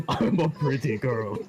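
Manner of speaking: put-on laughing through a slow girly voice. Shown as a demonstration. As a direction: giggle out a dainty girl voice. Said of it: "Willow talks like this".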